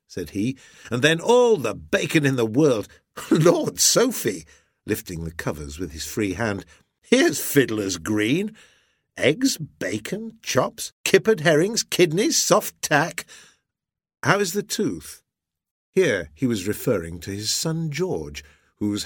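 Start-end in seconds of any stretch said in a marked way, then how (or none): 0.9-4.4 loud, high exclaiming captain; hearty sea captain, delighted. A narrator's reading. Husband exclaiming to wife over breakfast, hearty delight. 7.0-15.2 high, relishing captain's voice; hearty sea captain, delighted. A narrator's reading. Husband lifting the covers at breakfast, hearty relish.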